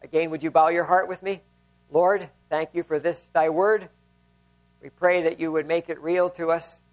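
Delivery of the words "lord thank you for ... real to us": prayer. Acted. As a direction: pray gently over the congregation, letting the voice sink. Pastor leads congregation in prayer.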